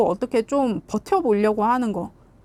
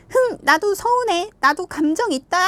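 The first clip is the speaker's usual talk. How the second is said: sulky huff; 8 semitones higher than usual. Retold or imitated. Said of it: "막 이런 식으로".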